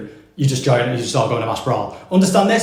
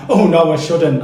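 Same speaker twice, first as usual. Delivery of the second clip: mock surprise; 2 semitones higher, 4 dB louder, slower than usual. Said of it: "you must act surprised".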